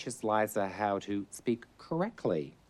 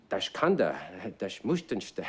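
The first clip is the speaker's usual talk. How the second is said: fake German. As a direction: bark it like a sub officer in a war film. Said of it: "that whole German thing".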